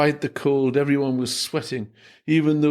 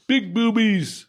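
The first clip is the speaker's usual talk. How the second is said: heckler shout; 8 semitones higher, slower than usual. Acted.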